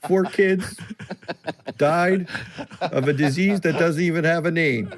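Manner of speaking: mock Don Cherry announcing tragedy. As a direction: ham up the grim detour. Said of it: "what Don Cherry has to say".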